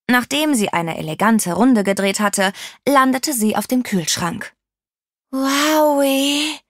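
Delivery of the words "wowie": high, drawn-out wonder; amazed. A narrator's reading. Ada marvels at the ketchup explosion, amazed. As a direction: stretch it out in astonishment. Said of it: "sagte Ada staunend".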